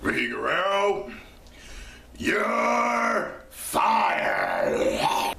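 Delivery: high shouted "you're fired"; mock boss shout; yelled firing. Real, not acted. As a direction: yell it at the screen. Fan yelling at the screen.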